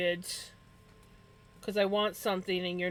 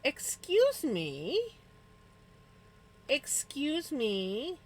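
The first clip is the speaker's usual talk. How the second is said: indignant excuse me; 6 semitones higher, much slower than usual. Real, not acted. Owner scolding the cat.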